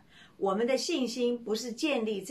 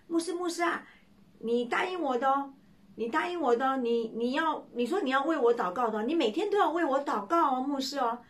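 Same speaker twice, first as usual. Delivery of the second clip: put-on high, eager begging young man; a young man begging the pastor to pray for him; pleading young man; 4 semitones higher than usual.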